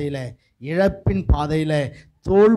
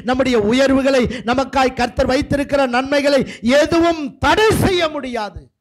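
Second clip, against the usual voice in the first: rhythmic sermon build, phrase upon phrase; forceful preaching; 4 semitones higher, 3 dB louder than usual. Real, not acted. Preacher declaring that nothing can stop the resurrection, forceful preaching. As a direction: pile up each line toward a peak.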